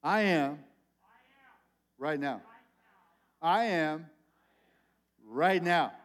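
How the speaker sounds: firm on I am, rising loud on right now; call and response. Shown as a demonstration. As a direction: lead the room in saying it. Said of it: "Everybody say it".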